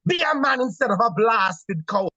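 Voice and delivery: put-on wife shaming her husband, in a Caribbean accent; Caribbean Lady Macbeth. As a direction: taunt him in a Caribbean accent. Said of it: "And his wife says".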